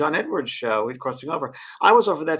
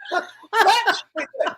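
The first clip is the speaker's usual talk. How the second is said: high, slow, hammed-up grudging praise; mock impressed Oprah; 6 dB louder, much slower than usual. Imitating Oprah's reaction, high mock praise. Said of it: "She goes".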